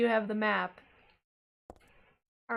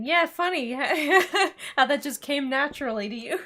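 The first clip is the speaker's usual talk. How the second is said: loud laughing tease; 4 semitones higher, 6 dB louder than usual. Real, not acted. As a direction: giggle through the teasing. Teasing partner while laughing.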